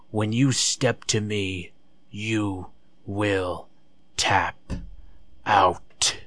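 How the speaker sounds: slow, drawn-out mock promo, word by word; mocking Gulak's catchphrase. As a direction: ham up the threat with long pauses. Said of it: "Gulak uses that "step to me" line".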